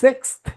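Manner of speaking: Sixth with a clear th at the end. Shown as a demonstration. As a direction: Sixth ending in th, never f. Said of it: "সিক্স F না, সিক্সথ।".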